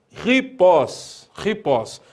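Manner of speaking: ripós with a strongly breathed initial h sound; strong aspiration. Shown as a demonstration. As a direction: open ripós on a strong rough h, stressing the final ós. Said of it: "uma aspiração forte".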